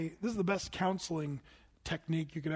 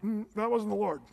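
laughing aside; 2 semitones higher than usual. Retold or imitated. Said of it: "I'm like".

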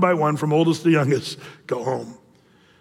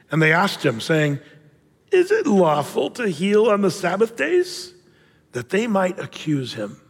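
scripture reading. Acted. Pastor reading the verse to his congregation, measured.

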